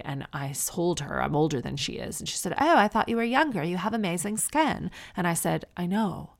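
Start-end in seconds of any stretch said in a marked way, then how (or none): 2.6-4.9 higher imitated posh twang; posh American, British twang. Mom compliments her skin, imitated posh twang. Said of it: "posh American with that British twang".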